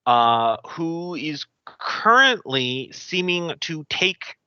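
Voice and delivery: slow, spooky scene setting; GM scene narration. Acted. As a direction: set a gloomy scene slowly. Game master scene setting.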